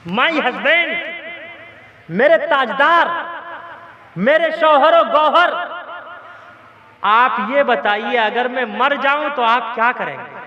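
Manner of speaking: a touch of exaggerated endearment; loving wife. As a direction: play a doting wife, lightly. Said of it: "बड़े प्रेम से कहा".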